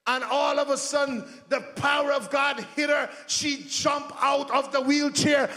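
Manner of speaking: rising, driving preacher's call with shouted peaks; full-force preaching. Acted. Pastor urging his church to go pray, preaching at full force.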